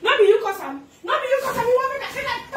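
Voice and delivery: high-pitched, agitated blaming; heated accusation. Real, not acted. Woman blaming the man in a quarrel, heated. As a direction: turn on them with rising outrage.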